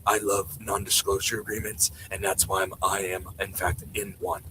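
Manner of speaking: low, soft mocking imitation of Dan Farah; mock Dan Farah voice, low and hushed; Dan Farah impression. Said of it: "I'm gonna do an impression of Dan Farah now".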